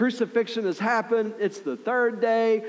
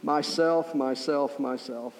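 exasperated sigh; 5 semitones lower, 3 dB quieter, slower than usual. Retold or imitated. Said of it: "God has looked at me and gone".

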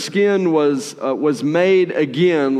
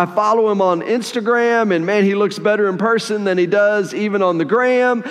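mildly gushing, raised pitch; excited; 5 semitones higher than usual. Acted. Servant raves about the visitor he follows, excited. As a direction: lightly act a starstruck fan. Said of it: "he's excited".

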